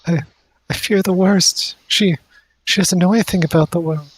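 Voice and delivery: high, fretful, weepy mother voice; still crying. Acted. Crying mother fears for her missing daughter, weepy. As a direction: act tearful dread, pitched well up. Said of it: "still kinda crying".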